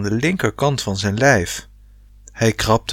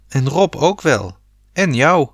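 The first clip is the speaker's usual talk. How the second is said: calling out; 5 semitones higher than usual. Acted. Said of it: "riep ze tegen de dichtslaande deur".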